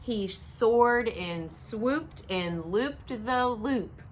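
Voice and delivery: reading a picture book to a class; steady, rhythmic storybook read; story narration. A narrator's reading. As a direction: read aloud to children.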